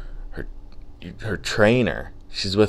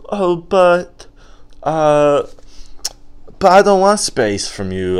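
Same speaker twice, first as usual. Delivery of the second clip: high, louder, hesitant protest; mock panicked pleading; 9 semitones higher, 4 dB louder than usual. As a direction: imitate a panicked dumped boyfriend pleading. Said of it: "you just panicked".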